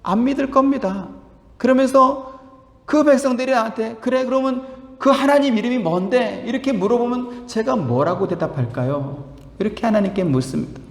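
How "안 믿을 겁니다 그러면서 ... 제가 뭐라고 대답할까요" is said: Moses asking God in a higher voice; a humble man who doubts he can do it; lightly voiced, imploring Moses; pleading Moses. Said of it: "또 묻습니다".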